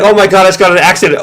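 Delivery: high, fast faked panic; mock panic. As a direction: pretend you just crashed, gasping out the words. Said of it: "you heard them screaming".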